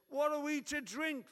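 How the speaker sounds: high, loud complaining people; grumbling crowd. Acted. Preacher voicing the grumbling people to Moses, high and loud. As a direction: whine it like a thirsty mob.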